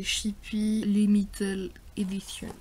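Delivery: English brand name in a French accent; real French accent on English words. Real, not acted. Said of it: "excusez-moi pour mon accent anglais".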